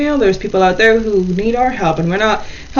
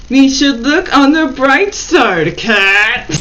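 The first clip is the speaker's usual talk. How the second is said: forced words through gritted teeth; 2 semitones higher, slower than usual. Acted. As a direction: say it through clenched teeth, slow. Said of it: "speaking through gritted teeth".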